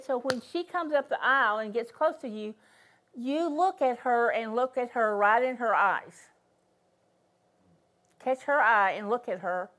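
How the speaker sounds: retold firm instruction, leaning on "look at her"; real emphatic. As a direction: give the order emphatically, as quoted from the Lord. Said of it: "he said it just real emphatically".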